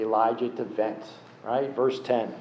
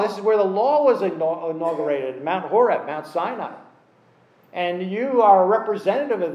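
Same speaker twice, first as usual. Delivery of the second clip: stern rebuke; 3 semitones higher than usual. Shown as a demonstration. God scolding Elijah for self-pity, stern and raised. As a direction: press him hard for wallowing. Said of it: "Or you could say this".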